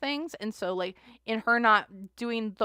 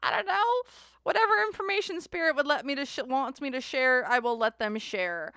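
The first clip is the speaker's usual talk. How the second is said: mock sing-song reply; 4 semitones higher than usual. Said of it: "And I'm like".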